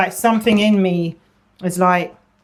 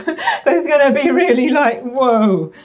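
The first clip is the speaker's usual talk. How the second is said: laughing; 6 semitones higher, 4 dB louder than usual. Real, not acted. Laughs while predicting reaction.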